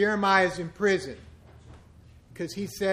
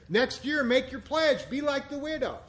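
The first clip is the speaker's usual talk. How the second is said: mock pledge appeal; 6 semitones higher than usual. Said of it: "every church in America is gonna be talking about".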